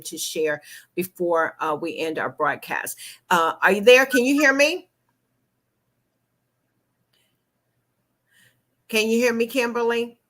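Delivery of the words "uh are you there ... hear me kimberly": calling out. Real, not acted. Calling to guest on bad line.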